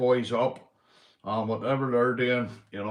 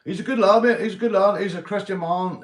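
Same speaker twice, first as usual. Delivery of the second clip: much higher and louder, insisting; emphatic praise; 8 semitones higher, 7 dB louder than usual. Real, not acted. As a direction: vouch for him loudly.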